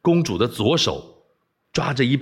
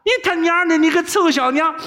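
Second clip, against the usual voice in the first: furious cursing. Acted. Captive boy curses the princess in rage, high furious yell. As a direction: spit the curse at her. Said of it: "大怒就骂".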